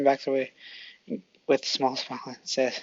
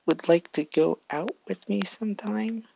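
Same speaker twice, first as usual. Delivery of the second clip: nervous ask; 6 semitones higher than usual. Acted. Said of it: "Deku starts getting nervous".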